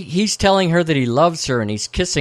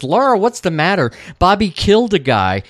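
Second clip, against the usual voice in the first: acted alarm; 7 semitones higher, 3 dB louder than usual. Retelling tense film dialogue.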